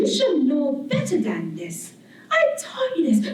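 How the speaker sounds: slow, lofty scolding that jumps high on "I taught you this"; condescending island. Acted. Barbados as a person lecturing the artist, slow haughty scold. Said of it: "very graceful, but yet condescending".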